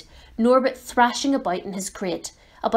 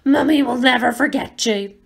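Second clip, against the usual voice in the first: tearful, louder wail; sobbing; 4 semitones higher, 5 dB louder than usual. Acted. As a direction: cry it out like a parent. Hagrid sobbing farewell.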